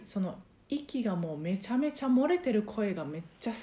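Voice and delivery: unvoiced, breath-leaking whisper; airy breathy voice. Shown as a demonstration. Teacher showing the leaky unclosed voice she likes, whispered. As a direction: let all the breath leak out as you talk. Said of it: "閉鎖してない".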